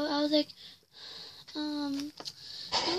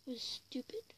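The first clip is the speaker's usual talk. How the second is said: whispering; 2 semitones lower, 14 dB quieter than usual. Real, not acted. Whispered aside to viewers.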